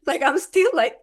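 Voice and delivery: laughing through the words; a real laugh spilling into the line. Real, not acted. Laughing while retelling disbelief.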